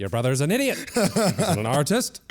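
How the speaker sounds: high, theatrical teacher outburst; hammed-up scornful dismissal; mock indignant rant. Teacher's outburst insulting the brother.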